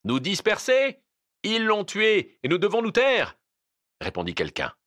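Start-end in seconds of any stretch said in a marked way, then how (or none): 0.0-3.4 high, indignant cry; incredulous outcry, pitched way up; outraged retort. Acted. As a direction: throw it back in loud protest. Crowd member answers in outrage.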